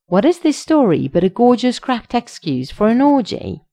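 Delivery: high, loud incredulous demand; outraged question. A narrator's reading. Shallot challenges Sheske's story, loud incredulous questioning. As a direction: exclaim the question in mock outrage. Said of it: "Question mark, exclamation mark".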